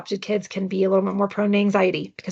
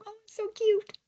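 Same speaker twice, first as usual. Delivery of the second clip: put-on much higher, cooing baby-talk voice; mock cooing; 13 semitones higher than usual. Mother coos at her toddler's grocery store tantrum, much higher mock sweetness. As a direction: coo at the tantrum like it's adorable. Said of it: "To keep it a little more comical".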